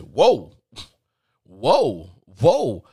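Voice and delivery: loud, separated cries of alarm; taken aback. Retold or imitated. Caller stops agent after porn misunderstanding, loudly taken aback. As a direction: halt them with loud, startled bursts.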